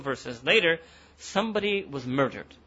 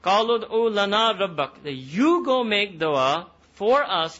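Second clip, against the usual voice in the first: impatient demand; 5 semitones higher, 5 dB louder than usual. Retold or imitated. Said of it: "So they said that".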